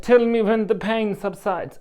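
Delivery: high, slow imitated Slavic accent; her Polish accent. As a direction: mimic the Polish masseuse, drawing it out. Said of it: "in her accent".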